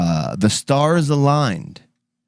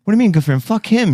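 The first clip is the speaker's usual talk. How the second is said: mock outrage; 9 semitones higher, 4 dB louder, much faster than usual. Mock outrage at Howard Stern.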